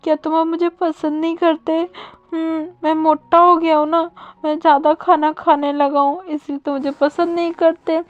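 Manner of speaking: milk it like a jealous sulking spouse; dramatic whining. Acted. Wang ji pouts at Wing, hammed-up whining about being unloved. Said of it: "पूरा drama start हो जाता है".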